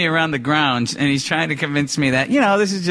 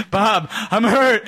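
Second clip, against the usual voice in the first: mock dazed groan; 5 semitones higher, slower than usual. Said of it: "He's like".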